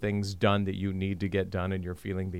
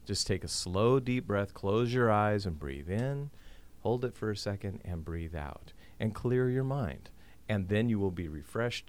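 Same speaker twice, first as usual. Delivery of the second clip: soft spa whisper; 3 dB quieter than usual. Shown as a demonstration. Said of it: "Is to breathe".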